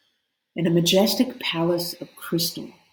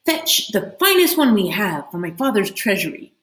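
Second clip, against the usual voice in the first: ordering; 3 semitones higher, 4 dB louder than usual. Acted. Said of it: "she ordered her servant".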